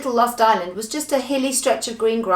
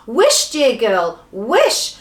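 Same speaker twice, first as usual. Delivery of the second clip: loud, slow, drawn-out urging; emphatic shouted command; urgent shout; 3 semitones higher, 6 dB louder, much slower than usual. Acted. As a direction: press someone to act now. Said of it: "shouted Moonface".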